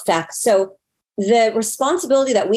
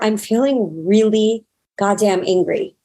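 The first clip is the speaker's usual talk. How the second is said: slow, weighted REALLY GODDAMN ANGRY; REALLY stretched, each following word deliberate; emphatic admission. Retold or imitated. Voicing someone admitting to anger.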